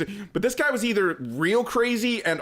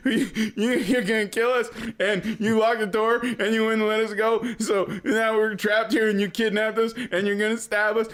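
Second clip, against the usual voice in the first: raised-pitch blubbering imitation; half-hearted crying voice, strung along; mock tearful; 3 semitones higher than usual. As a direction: imitate a bawling kid listing accusations. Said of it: "he starts bawling".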